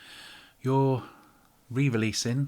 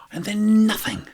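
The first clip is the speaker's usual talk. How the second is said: And then nothing, higher and louder with stress on then; exasperated, louder And then nothing; 10 semitones higher, 7 dB louder than usual. Shown as a demonstration. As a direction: blurt it out in disbelief.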